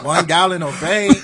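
put-on joking, imperfect Mexican accent; attempted Mexican accent. Comic plays his neighbor listing supplies, in an attempted Mexican accent. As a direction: try a Mexican accent for the punchline. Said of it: "can't do a Mexican thing".

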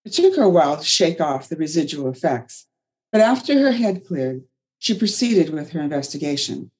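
expressive read-aloud storytelling; storyteller reading. Acted. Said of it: "so I read like a storyteller".

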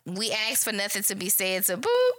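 curt. Retold or imitated. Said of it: "No, like".

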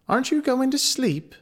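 put-on high, small girl voice; little girl whispering. A narrator's reading. Gretel to her brother in bed, high and small. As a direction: ask it like a sleepy child. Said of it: "Gretel whispered to her brother".

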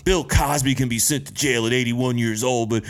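put-on poster voice, dropped from the rant; mocked online poster. Critic mimicking people who post in the comedian's defence, mocking. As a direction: mockingly act out someone's indignant post.

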